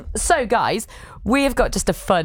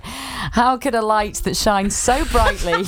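laughing; slower than usual. Real, not acted. Reading a funny card aloud.

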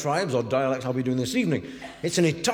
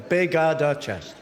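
hammed-up Italian lilt; mock Italian accent; 2 semitones lower than usual. Shown as a demonstration. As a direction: repeat it in joke Italian. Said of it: "bit of Italian for you".

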